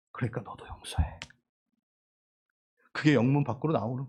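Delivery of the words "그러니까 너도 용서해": very soft, low, near whisper; hushed gentle urging. Acted. Preacher voices Jesus asking his follower to forgive, hushed. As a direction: drop to a low hush.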